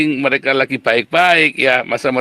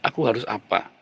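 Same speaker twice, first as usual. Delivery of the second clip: soft, level, considered asking; calm realistic self-question; 4 semitones lower, 6 dB quieter than usual. Shown as a demonstration. Preacher voicing a realistic person, calm and quiet. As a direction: ask yourself quietly, like a sensible person. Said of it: "ketika orang realistik".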